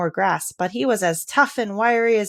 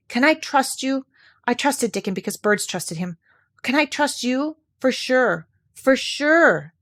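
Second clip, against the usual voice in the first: put-on higher pleading girl's voice; imploring; 5 semitones higher, slower than usual. Mary begging Colin to keep the secret, imploring. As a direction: beg him to be trustworthy. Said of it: "she implored".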